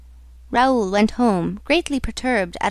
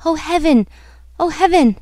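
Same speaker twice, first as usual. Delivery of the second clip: higher, distraught exclamations; 6 semitones higher, 4 dB louder than usual. Acted. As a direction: repeat it in mounting dismay. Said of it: "repeating with a distraught air".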